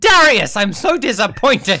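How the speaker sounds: full-volume, high, stretched-out yell. Player retells their character yelling at another character after a screeching shot. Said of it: "I think I literally yell".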